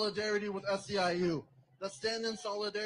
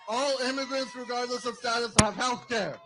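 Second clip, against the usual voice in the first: louder insistent repeat of the demand; emphatic louder repeat; 2 semitones higher, 5 dB louder than usual. Real, not acted. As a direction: hammer the demand home to the crowd. Repeats demand with more force.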